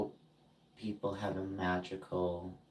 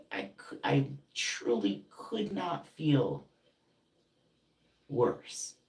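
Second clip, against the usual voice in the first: raised, aggrieved pitch with loud bursts; indignant retort; 6 semitones higher, 4 dB louder than usual. Retold or imitated. Telling off a friend who made things worse, indignant. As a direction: argue back, leaning hard on key words.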